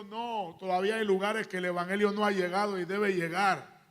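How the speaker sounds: loud, forceful preacher's retelling; emphatic divine answer. Retold or imitated. God answers the preacher's doubt about Panama, loud and emphatic. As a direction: declare it firmly as God's reply.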